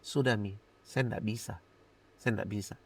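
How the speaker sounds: low, soft, weary giving up; drained, quiet surrender; retold exhaustion. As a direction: say it like you have no strength left. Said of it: "Saya lelah dan saya bilang gini".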